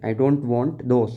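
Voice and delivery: slow, word by word for the class; slow read-aloud for young learners; slow careful reading. Shown as a demonstration. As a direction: read it out slowly so children follow. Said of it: "मुझे वो भी नहीं चाहिए".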